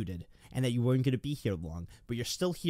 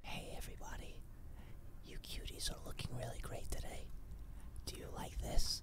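whispered, airy, breathy, very quiet ASMR voice; 12 dB quieter than usual. Describing ASMR videos, mimicking the girls who make them. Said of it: "And they're like".

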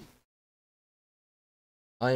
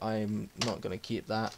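normal talking voice

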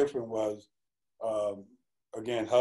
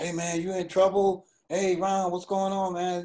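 high, yelled, called out loudly; 8 semitones higher, 3 dB louder than usual. Retelling walking through the yard as everybody calls out to them, retelling people yelling. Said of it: "everybody's like yelling like".

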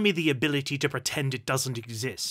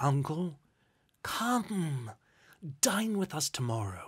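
ordinary delivery

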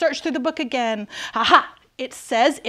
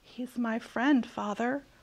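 whispered, quieter; 8 dB quieter than usual. A boy answers his father's shout, whispered. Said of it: "whispered Sir George".

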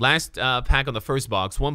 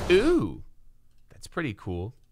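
over-sold, swooping, sarcastic fake excitement on "wow"; 3 dB quieter than usual. Opening a pack on stream, then admitting it: sarcastic fake excitement. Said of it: "I'm being sarcastic".

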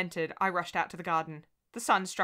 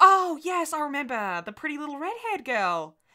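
sunny and cheerful, bright, raised and sing-song; 8 semitones higher, 6 dB louder than usual. A young teacher answers a mother who arrived late for her daughter, said brightly. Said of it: "then said brightly".

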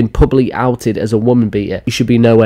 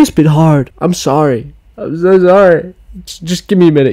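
high, put-on tearful voice with forced sobs; 6 semitones higher than usual. Mocking someone caught beating people, the speaker pretends to apologize: fake crying. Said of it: "It takes me a minute to fake tears".

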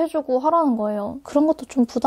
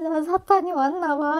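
put-on tearful crying voice, higher pitch; 4 semitones higher, 3 dB quieter than usual. Speaker retells crying to a friend who warned of Satan, imitating own past crying. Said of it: "나 울면서".

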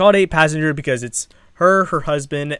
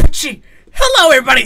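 belted out full blast, high and swooping; 12 semitones higher, 8 dB louder than usual. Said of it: "Jacksepticeye does the whole edit".

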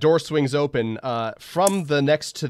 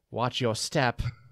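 semi-posh, semi-British woman's voice; 5 dB quieter than usual. Narrating a woman's voice echoing from the top of a tower: semi-posh, semi-British accent. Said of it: "a semi-posh, semi-British accent".

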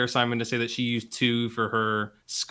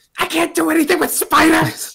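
very high, very loud, exasperated, frustrated yelling; 11 dB louder than usual. Voicing a character shouting in frustration at spiders: frustrated shout. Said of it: "she's just shouting in, in frustration".

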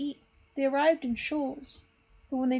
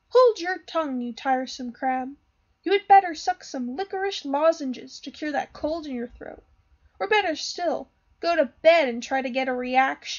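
loud, scornful, rude, mocking tone; 6 dB louder than usual. Pinocchio turns on the crab who lectured him; mocking and rude. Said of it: "looked at him mockingly, and said rudely".

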